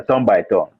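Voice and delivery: normal talking voice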